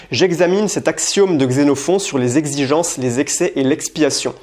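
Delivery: J'examine cet axiome repeated slowly, clearly; slow clear repeat of each syllable; careful tongue twister. Shown as a demonstration. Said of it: "je vais t'en faire quelques-unes". (répétition lente et articulée)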